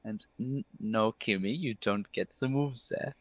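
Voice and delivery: lightly voiced theatrical elf; a hint of camp elf; flamboyant elf. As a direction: gush slowly, lingering on the praise. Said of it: "He goes".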